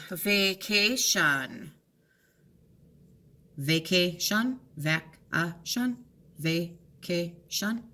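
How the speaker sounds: "vacation" drawn out again and again; slow syllable trying. Shown as a demonstration. Teacher to students, hunting for the syllables. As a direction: feel around "vacation" slowly. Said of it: "vacate on".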